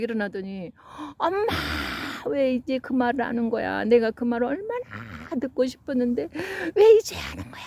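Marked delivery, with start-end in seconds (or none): 1.2-7.6 crying shout. Retold or imitated. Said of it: "막 소리를 지르면서 막 펑펑 울더래요".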